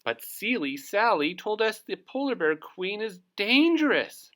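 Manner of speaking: a puffin repeating the warning; high worried bird; Puffin Muffin's voice. Acted. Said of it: "said Puffin Muffin".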